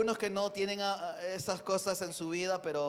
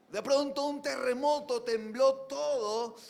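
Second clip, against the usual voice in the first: higher, louder build-up; dramatic telling; 6 semitones higher, 6 dB louder than usual. Acted. Preacher dramatizing the earthquake for the congregation, excited. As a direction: make the earthquake land.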